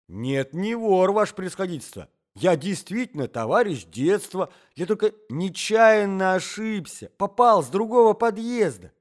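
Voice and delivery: high, loud, anxious excuses; flustered protesting. A narrator's reading. Intruder explaining the wrong entrance, flustered protesting. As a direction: plead innocence, rising in volume.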